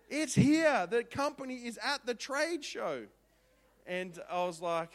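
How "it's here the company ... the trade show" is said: high, loud eager news; excited. Retold or imitated. Wife explaining on the phone, high and eager. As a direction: rush the news out, thrilled. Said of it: "I'm like".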